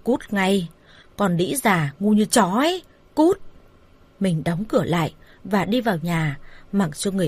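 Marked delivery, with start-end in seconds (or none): 0.0-3.4 mildly acted angry cursing. Man cursing his lover at the gate, understated anger. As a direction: hurl the insult, restrained in volume. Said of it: "chỉ tay vào mặt bà Hồng chửi".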